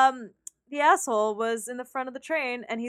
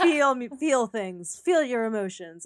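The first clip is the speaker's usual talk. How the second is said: mock dramatic. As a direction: drag it out like the music demanding tears. Mocking the overdramatic music.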